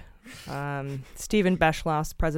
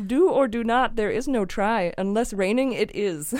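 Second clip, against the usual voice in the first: high, lightly voiced Yoda; Yoda impression; 5 semitones higher than usual. Host reading a fan's Yoda joke in a Yoda voice. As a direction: mimic Yoda's backwards wisdom, a little higher. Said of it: "my favorite was Yoda".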